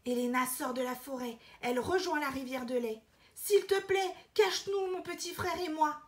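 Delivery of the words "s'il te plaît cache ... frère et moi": put-on urgent little-girl plea; pleading girl. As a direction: beg like a frightened girl. Elena begs again.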